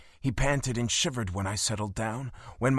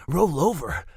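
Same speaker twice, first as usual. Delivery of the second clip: growled; 2 semitones higher, 4 dB louder than usual. Acted. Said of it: "I growled".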